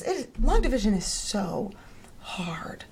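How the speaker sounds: fading into a whisper. Retold or imitated. Mother sympathizing with frustrated daughter, whispering.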